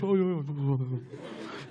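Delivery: soft fading giggling ai ai; sheepish giggle. Retold or imitated. Neves giggling softly after being scolded. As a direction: laugh it off, trailing to nothing. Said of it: "E o Neves".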